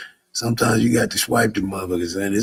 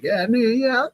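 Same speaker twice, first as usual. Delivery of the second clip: hyped approval; 13 semitones higher than usual. Retold or imitated. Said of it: "y'all gonna be like".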